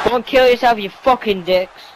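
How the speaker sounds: panicking gamer. Real, not acted. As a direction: scream it at the screen, dragging it out. Raging gamer losing a match.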